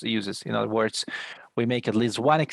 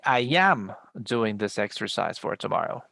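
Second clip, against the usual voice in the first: "am" leaned on, pitched up a bit; stress on AM. Shown as a demonstration. Teacher demoing emphatic verb to be, stress on AM. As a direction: hit the word "am" firmly. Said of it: "place a special intonation on the verb to be".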